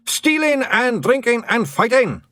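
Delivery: high, loud, slow gleeful chant; cheerful shout. A narrator's reading. Blue men cheerfully shout their answer, loud and high. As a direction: roar it happily as a clan. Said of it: "shouted the blue men cheerfully".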